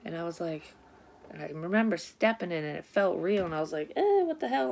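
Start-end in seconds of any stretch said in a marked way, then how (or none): 3.9-4.7 high, louder startled exclaim; startled what the hell. Retold or imitated. Stepping in cat puke in a dream, startled yelp. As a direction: yelp it in disbelief at the mess.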